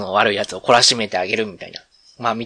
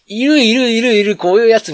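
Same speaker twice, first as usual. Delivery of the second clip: amused producer; 9 semitones higher, 7 dB louder than usual. Retold or imitated. Producer recognizing a familiar type.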